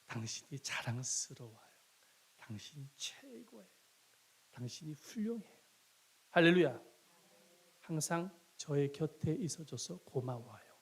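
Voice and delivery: mild tender praise. Retold or imitated. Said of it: "남편이 아내에게 가장 듣고 싶은 말".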